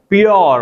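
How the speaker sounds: "प्योर" with a full o, pyor. Shown as a demonstration. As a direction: round the vowel of "प्योर" into yor. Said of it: "जैसे हम बोलते हैं".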